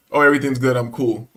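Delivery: easy, unbothered answer; calm reply. Retold or imitated. Man replying to a sarcastic store clerk, calmly. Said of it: "I answered her so calmly".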